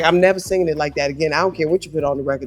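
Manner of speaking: fast, defiant rattled-off declaration; defiant vow. Retold or imitated. Singer vowing never to repeat take, fast defiance. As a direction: fire off the vow without pausing. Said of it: "I was like".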